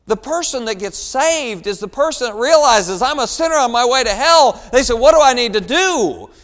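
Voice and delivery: loud, high, driving pulpit delivery; full-force preaching. Real, not acted. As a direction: drive it home to the congregation, building to the question.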